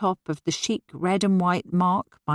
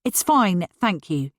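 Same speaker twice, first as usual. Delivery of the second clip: snapped; slower than usual. Acted. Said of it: "she snapped".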